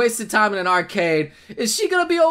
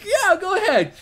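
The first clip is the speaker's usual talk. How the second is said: higher, lightly mocking prediction; mock quote; 5 semitones higher than usual. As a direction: act out his clueless remark. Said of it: "That's what he's gonna say".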